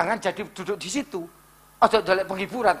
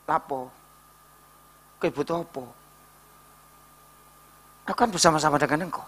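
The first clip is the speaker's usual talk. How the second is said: soft, low, gentle asking; tender parent; 6 semitones lower, 8 dB quieter than usual. Acted. God asking a crying child, soft and tender. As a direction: coax softly like a caring parent. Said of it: "Ini bahasa orang tua".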